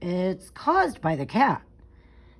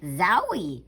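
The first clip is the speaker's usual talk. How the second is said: surprised zowie. Acted. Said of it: "said Ada".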